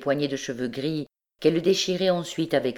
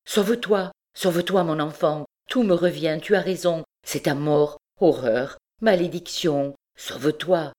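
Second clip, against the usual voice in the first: desperate cry; 3 semitones higher than usual. Acted. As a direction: push her daughter to flee. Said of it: "un cri désespéré". (cri désespéré, voix haute)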